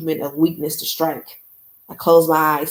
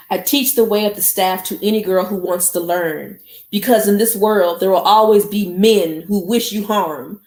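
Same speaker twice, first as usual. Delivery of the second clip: lightly voiced commanding elder, a little louder; stern teacher voice; 3 semitones higher, 4 dB louder than usual. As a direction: read it like a general addressing her troops, a touch fervent. Mama Agba's speech reread.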